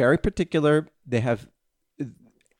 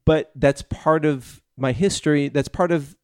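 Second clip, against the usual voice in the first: slow sincere quote; 3 dB louder than usual. Retold or imitated. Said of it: "he basically said".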